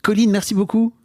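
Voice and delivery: mock sign-off, pitched well up; faux remerciement de clôture. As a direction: thank the guest in a high, teasing wrap-up voice. Fausse clôture pour plaisanter. (remerciement aigu de fausse fin d'émission)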